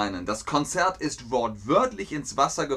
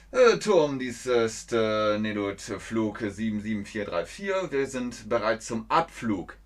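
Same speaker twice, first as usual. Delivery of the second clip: pilot radio call; 2 semitones lower than usual. Retold or imitated. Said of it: "man sagt".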